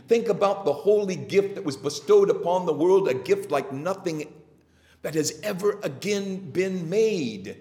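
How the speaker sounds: fervent, emphatic sermon delivery; preaching. Real, not acted. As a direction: proclaim scripture to the congregation with rising, lifted emphasis. Preaches with raised force.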